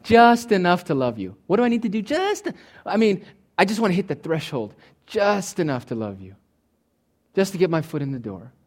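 a touch of a grudging lover asking what's required; mock minimal lover. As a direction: haggle over the bare minimum, lightly mocking. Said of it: "who talks like that to people they love?".

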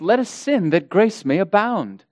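lightly mocking false-teacher voice; mimicking false teachers. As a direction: quote them with a touch of mockery. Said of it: "this is how they sound".

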